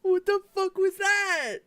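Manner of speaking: high, loud laughing shriek; laughing disbelief. Real, not acted. Friend reacting to a strange laugh, shrieking with laughter. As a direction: shriek it through laughter, words drawn out.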